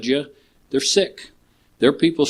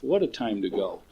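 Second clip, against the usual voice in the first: hushed murmur; 2 semitones lower, 8 dB quieter than usual. Real, not acted. Third echo, near whisper.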